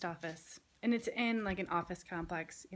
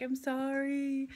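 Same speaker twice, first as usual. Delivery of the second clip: put-on teary kid; 5 semitones higher, slower than usual. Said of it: "almost starts crying".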